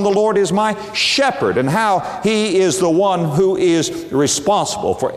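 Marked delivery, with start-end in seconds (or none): 0.0-1.6 "shepherd" weighted; emphasis on shepherd. Shown as a demonstration. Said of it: "put the emphasis upon".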